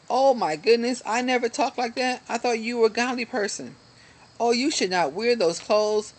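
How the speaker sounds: high, prissy, scandalized pearl-clutcher; self-righteous churchgoer. Acted. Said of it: "this is the self-righteous ego".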